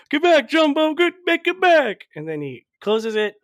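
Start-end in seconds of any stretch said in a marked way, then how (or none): 0.1-2.1 high, loud shouted commands; mock yell. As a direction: yell it at the trunk in a much higher voice. Cat shoving trunk back in.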